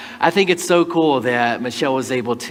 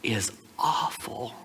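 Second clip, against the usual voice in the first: slow, hushed quote of someone upset, fading out; retold near-tearful voice, slow and halting; almost in tears; 3 dB quieter, much slower than usual. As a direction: imitate hurt, dropping to a whisper on the last words. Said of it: "almost in tears with this".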